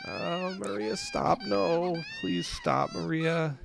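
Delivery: urgent, upset appeal at a high pitch; distressed pleading. Real, not acted. Reacting to the child's distress in game.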